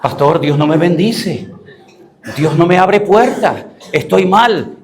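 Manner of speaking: slow mock complaint to the pastor; complaining churchgoer. Acts a church member complaining to pastor. (queja imitada, alargando las palabras)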